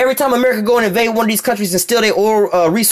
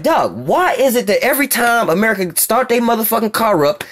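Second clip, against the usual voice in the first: Russia voiced; 4 semitones higher than usual. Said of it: "Russia's like".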